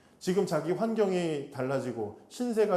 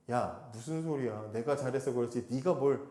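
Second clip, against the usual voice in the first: mock dismissive uncle, slowed and lower; dismissive Laban; 4 semitones lower, 4 dB quieter than usual. Laban brushing Jacob off, hypothetical dismissive retort. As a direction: brush him off like a scornful boss. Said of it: "이렇게 부인하지 못했어요".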